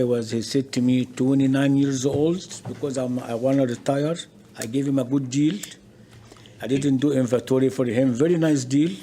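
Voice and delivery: talking away from the mic; far from the microphone. Real, not acted. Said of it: "speak into this".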